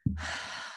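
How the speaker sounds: weary sigh. Pretend. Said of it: "Or I could wake up and say".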